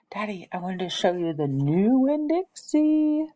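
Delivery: lightly voiced eager little girl; hopeful kid showing off her dog; eager young girl. A narrator's reading. A girl showing her dad the new dog, lightly eager. Opal shows dog to father.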